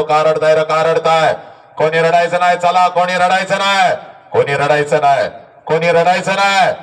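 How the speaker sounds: a touch of a cheerful telling-off; mild mock scolding. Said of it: "सगळ्यांना ओरडतो". (सौम्य दटावणी)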